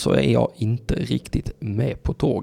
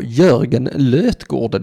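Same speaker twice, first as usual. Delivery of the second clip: slow hyped announcement; 2 semitones higher, 4 dB louder, much slower than usual. Acted. Hyped name.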